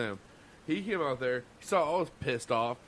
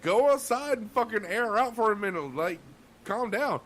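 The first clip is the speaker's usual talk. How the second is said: loud, high barked order to go cool off; boss telling him to cool off; 8 semitones higher, 4 dB louder than usual. Retold or imitated. Sous chef ordering a cook outside, loud and high. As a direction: bark it at a stressed cook. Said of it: "He was like".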